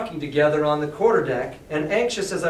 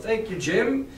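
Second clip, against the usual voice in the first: "Thank you, Jim" said a bit louder and brighter, rising on "Jim"; quite loudly; 6 semitones higher, slower than usual. Acted. Doctor covers for Jim with "Thank you, Jim," a bit louder. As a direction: call out "Thank you, Jim" for all to hear. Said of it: "he said quite loudly".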